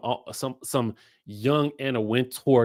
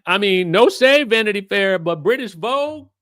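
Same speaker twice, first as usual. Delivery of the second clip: higher, louder, building to British Vogue; excited hype; 8 semitones higher, 6 dB louder than usual. Real, not acted. Host hyping Bronwyn's British Vogue shoot, excited. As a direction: sell it like big news.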